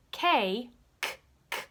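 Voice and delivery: K, K, K with voice off; voiceless K. Shown as a demonstration. Teacher contrasting K with voiced G, voiceless K. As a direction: cough out K without voice. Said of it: "your voice is turned off".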